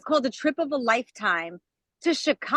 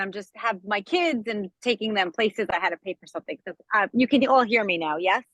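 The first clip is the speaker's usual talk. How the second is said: walking while talking. Real, not acted. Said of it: "I'm sorry I'm walking around".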